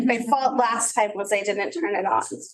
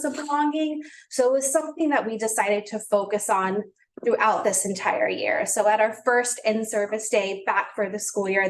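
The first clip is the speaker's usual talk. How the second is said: shaky voice. Real, not acted. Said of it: "oh, I can hear my voice shaking".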